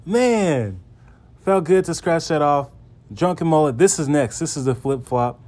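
bubbling over after the catch; excited rush of words. Real, not acted. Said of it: "excuse me, I'm excited".

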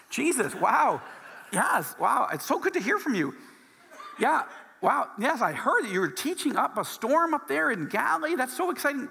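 overjoyed to get the call; breathless, giggly thrill; gushing excitement. Retold or imitated. Imagined phone call from Jesus.

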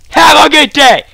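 high, loud mock-polite farewell; shouted send-off. Gamer dismissing a beaten opponent, shouted mock courtesy.

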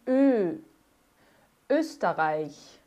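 Ö and Österreich with rounded lips and an E sound; Österreich said slowly, rounded Ö; umlaut demo. Shown as a demonstration. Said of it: "é a boca do O e sai um E".

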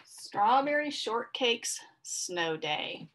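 slow, drawn-out storybook title; slow title read. A narrator's reading. Reading the title to young listeners, slow and drawn out. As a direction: announce the book's title slowly to the kids.

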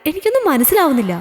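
jolted, bewildered protest; shocked disbelief. Acted. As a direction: question it as if you can't believe your ears. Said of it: "വിശ്വസിക്കാനാവാതെ ആ അമ്മ നടുങ്ങി".

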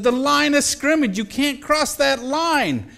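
put-on high, slow, condescending big-kid voice; mock big kid. Big kids explaining offside to a small boy, high and slow. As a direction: spell it out slowly like to a baby. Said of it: "And they said".

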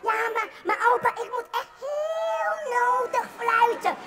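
put-on high, whiny kid begging grandpa, slowing on the last line; pleading child. Little Jantje begs his grandpa to whistle, whiny high child voice. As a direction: beg like a small boy who must whistle.

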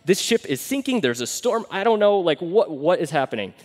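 loud, frantic mock panic; hammed-up terror at a ghost; panicked disciples. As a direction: disciples panicking, shouting over each other in a storm. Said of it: "they were losing their minds".

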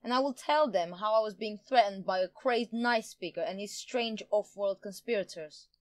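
gloating villain, energised; excited, triumphant threat; manic glee. A narrator's reading. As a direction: crow over your plan with manic delight. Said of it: "Jian retorted with manic glee".

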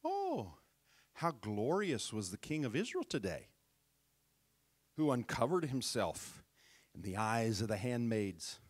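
mocking wife, dripping with sarcasm; a hint of sarcastic scorn. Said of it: "now this is sarcastically".

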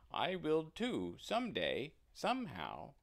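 small eager calf; little calf. Acted. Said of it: "Said her calf".

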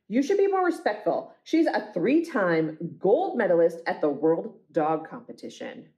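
lightly acted huffy owner; scold, then boast about the champion pet; indignant dog owner.

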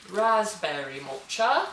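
slow, lightly put-on British accent on Raspberry matcha; mock British accent. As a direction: say it like a playful British announcer, slowly. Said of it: "I don't know why I'm British".

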